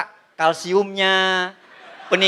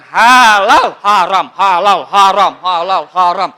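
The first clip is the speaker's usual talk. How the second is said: mock shouting match; 3 semitones lower, 6 dB louder, slower than usual. Shouting match halal haram.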